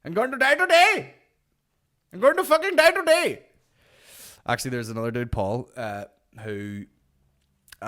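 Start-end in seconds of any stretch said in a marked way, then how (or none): 0.0-3.4 very high, loud whiny wail; hungover dying voice. Pretend. Hungover man wailing to his helper, high and loud. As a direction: wail like you're dying of a hangover. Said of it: "this will be me the next day".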